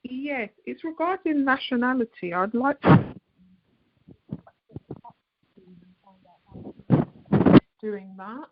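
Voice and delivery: phone line fading in and out; crackly cordless phone. Real, not acted. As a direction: voice dropping out over a bad phone line. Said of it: "you're fading in and out".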